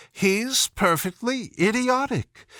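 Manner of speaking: a lightly voiced Alice, scornful and at wit's end; desperate. A narrator's reading. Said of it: "said Alice desperately".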